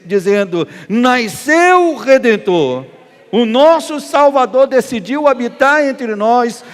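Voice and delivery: loud, high preaching at full force; triumphant proclamation. Real, not acted. Preacher proclaiming the Redeemer's birth to the congregation, triumphant proclamation. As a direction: proclaim it loudly, stretching the key words.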